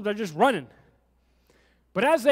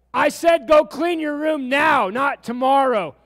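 louder, higher stern order, slow and firm; exasperated parent; 4 semitones higher, 6 dB louder than usual. Retold or imitated. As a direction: lay down the law to a dawdling kid. Parent escalates chore command.

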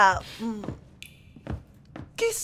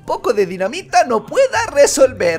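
laughing boast; 5 dB louder than usual. Acted. Boasts about dynamite, laughing.

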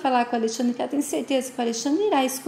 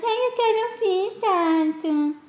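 high, whiny mimicry of a little brother; a sneering big brother mimicking the kid in a high whine; mocking whiny imitation; 8 semitones higher, slower than usual. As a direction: parrot him back in a higher, mocking whine. Tato mocks Dudu's protest.

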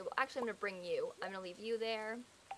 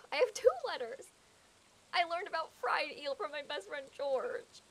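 excited mail announcement; 5 semitones higher than usual. Pretend. Excitedly reads out game mail.

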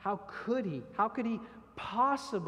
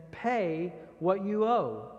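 louder, slow, threatening demand; slow angry demand, voice raised; 3 semitones higher, 6 dB louder, slower than usual. Acted. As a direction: grab him and demand the money, slowly and loud. Servant choking a fellow servant.

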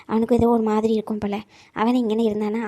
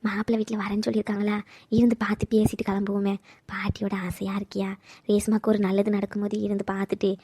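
soft, breathless whisper, lower; whispered plea; 4 semitones lower, 6 dB quieter than usual. Acted. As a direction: whisper the wish close to his ear. Grandmother pleading with grandson. (பேரனிடம் பாட்டியின் ஆசையை மெல்லிய கிசுகிசுப்பில்)

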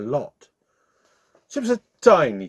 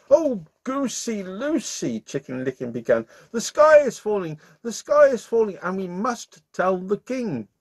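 much higher, alarmed chicken pleading; frantic little chicken; 9 semitones higher than usual. Acted. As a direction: warn the duck in a panic. Chicken voice held.

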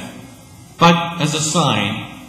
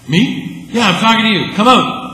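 high, louder mock insistence; playful loud call; 9 semitones higher, 8 dB louder than usual. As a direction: tease him out of the tomb. Playful dialogue, Jesus insists.

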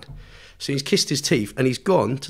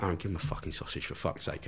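mate's urgent half-whispered plea, much softer; hushed aside; 6 semitones lower, 12 dB quieter than usual. Retold or imitated. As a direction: hiss it under your breath so the guy won't hear. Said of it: "he's trying to talk to me, but without the guy knowing".

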